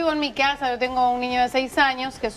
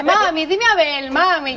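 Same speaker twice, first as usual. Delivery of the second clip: put-on slow, higher little boy's pleading; child's plea; 3 semitones higher, slower than usual. Boy begging his mother, lightly voiced pleading child. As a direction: mimic a small child begging.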